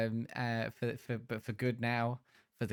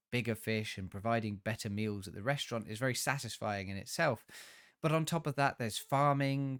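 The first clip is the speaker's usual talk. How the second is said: review read. Acted.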